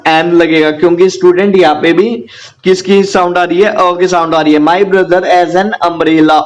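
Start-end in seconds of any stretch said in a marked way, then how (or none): 4.6-6.4 very slow, deliberate English sentence; slow teacher dictation of the sentence. Shown as a demonstration. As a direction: read it out word by word for the class. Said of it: "teacher dictates English sentence".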